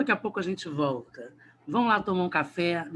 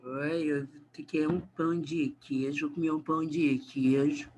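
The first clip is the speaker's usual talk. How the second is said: put-on Minas Gerais accent; 3 semitones lower, 3 dB quieter than usual. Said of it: "o mineiro que fala assim".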